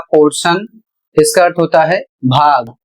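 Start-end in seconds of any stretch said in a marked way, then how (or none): 0.1-0.7 पोर्शन with T said as श; model pronunciation. Shown as a demonstration. Teacher models portion for students, clearly. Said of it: "इसे पढ़ा जाएगा".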